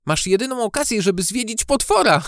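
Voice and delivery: high, giggly teasing; joking. A narrator's reading. Maja jokes to lure Gucio inside, giggly teasing. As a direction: tease playfully, breaking into laughter. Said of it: "Żartowała i śmiała się".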